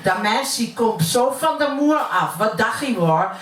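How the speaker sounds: poem recited in plat Utrechts dialect; broad Utrecht accent. Acted. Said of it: "ik uit Utrecht kom". (plat Utrechts accent)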